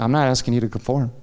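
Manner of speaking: lightly voiced the Lord. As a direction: speak it calmly as God would. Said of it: "the Lord said to me".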